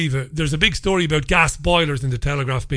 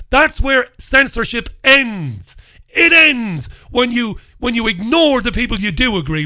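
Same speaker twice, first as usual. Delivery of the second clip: slow emphasis; 5 semitones higher, 4 dB louder than usual. Real, not acted.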